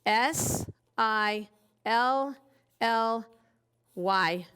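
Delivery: put-on slow, spaced letters for children; teacher spelling aloud slowly. Shown as a demonstration. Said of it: "teacher spelling out letters".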